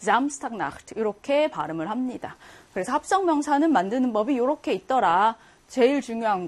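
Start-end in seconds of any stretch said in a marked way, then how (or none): 0.0-0.9 Samstag Nacht with the stress on the front word, Samstag. Shown as a demonstration. Teacher showing how the German compound is pronounced, stress on Samstag. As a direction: lean on Samstag, let Nacht follow unstressed. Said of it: "강세는 당연히 앞에 있는 명사에".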